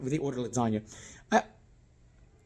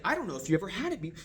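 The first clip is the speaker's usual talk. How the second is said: higher, quick and awkward; weird hands-up delivery; 4 semitones higher, faster than usual. Shown as a demonstration. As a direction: rattle it off, pitched up, as a wrong example. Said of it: "up here is just like, ... that's weird".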